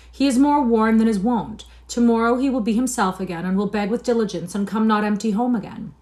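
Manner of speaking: pleading sister. A narrator's reading. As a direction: beg father for the brother. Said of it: "plead for their brother".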